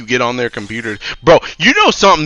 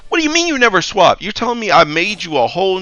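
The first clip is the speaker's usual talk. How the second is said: higher, fast disbelief; exasperated; 6 semitones higher than usual. Real, not acted. IT guy to a coworker who never swapped, exasperated. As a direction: fire it back in disbelief.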